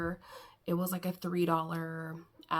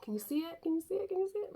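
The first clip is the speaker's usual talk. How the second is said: higher with each repeat, teasing; sing-song, climbing each time; playful rising question; 9 semitones higher, much faster than usual. Real, not acted.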